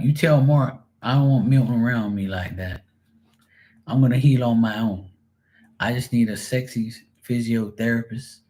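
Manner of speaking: lightly voiced fed-up woman; mock protest, telling them to back off; imitating an annoyed friend. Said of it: "I can hear it now".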